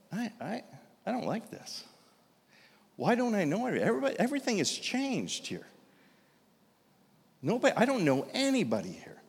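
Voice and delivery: quietly uneasy, like the ground has shifted; a hint of a man lost at a reunion; dismayed inner voice.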